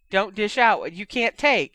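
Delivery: yelling back. A narrator's reading. Ginny dodging her brother's lunge, yelling back. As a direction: yell it back at your brother. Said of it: "she yelled back".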